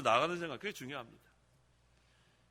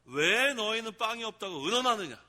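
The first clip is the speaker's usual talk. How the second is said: stern rebuke, raised pitch; a lightly voiced Jesus rebuking, louder and higher; 4 semitones higher, 6 dB louder than usual. Shown as a demonstration. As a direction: scold the disciples from the pulpit. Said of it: "지금 책망하시는 거예요".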